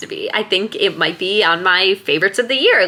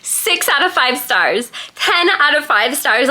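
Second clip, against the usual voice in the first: thrilled rave; 5 semitones higher than usual. Real, not acted. Just finished the book, thrilled.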